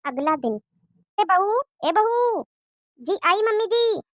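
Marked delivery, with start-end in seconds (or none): 1.2-2.4 calling out. Acted. Mother-in-law calls daughter-in-law. 3.0-4.0 calling back. Acted. Daughter-in-law answers the call.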